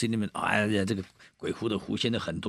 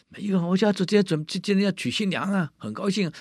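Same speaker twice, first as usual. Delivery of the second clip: protesting host; 11 semitones higher than usual. Acted. Host protests, wedding today.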